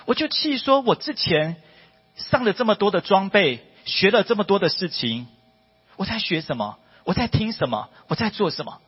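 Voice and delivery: frustrated self-questioning; angry at herself. Real, not acted. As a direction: scold yourself with rising pitch. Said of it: "那我气什么呢".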